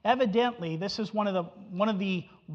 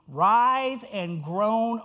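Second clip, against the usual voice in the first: slow dramatic; much slower than usual. Acted. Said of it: "dramatic slow scripture phrase".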